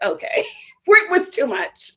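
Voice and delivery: high, laughing okay; laughing disbelief. Retold or imitated. Retelling her reaction to the mom, laughing disbelief. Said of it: "I was like".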